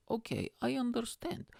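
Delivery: high, slow dad voice; halting, high-pitched mock dad; dad impression. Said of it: "My dad goes".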